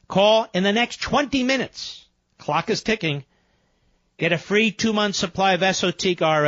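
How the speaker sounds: upbeat radio ad read; infomercial. Acted. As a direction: pitch it like a sales spot. Host reads sponsor ad.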